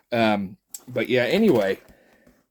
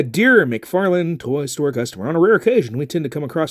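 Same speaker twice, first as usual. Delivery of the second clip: formal letter reading; 4 semitones higher, 5 dB louder than usual. Pretend. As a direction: read it out like an official notice.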